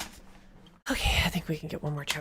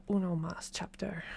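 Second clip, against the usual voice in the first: whispering. Real, not acted. Low-key aside before reading.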